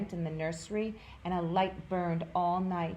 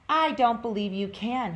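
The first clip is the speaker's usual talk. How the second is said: doubting wild rabbit; 5 semitones higher, 7 dB louder than usual. A narrator's reading. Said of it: "he said".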